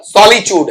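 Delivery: "सॉलिट्यूड" as SOL-i-chood; British pronunciation. Shown as a demonstration. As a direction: say "सॉलिट्यूड" with ch in place of ty. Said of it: "ये British English में उच्चारण दिया".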